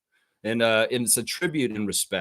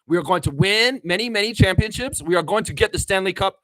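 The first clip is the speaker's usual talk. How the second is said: higher, excited Masai Ujiri voice; Masai impression; 6 semitones higher, 3 dB louder than usual. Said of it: "When I do an impression of Masai".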